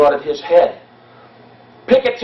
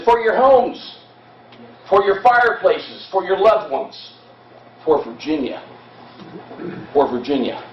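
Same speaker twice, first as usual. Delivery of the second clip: rallying cry. Retold or imitated. Guide voices Armistead rallying his men, mild rousing cry. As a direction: start lifted, sink toward Virginia. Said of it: "He said".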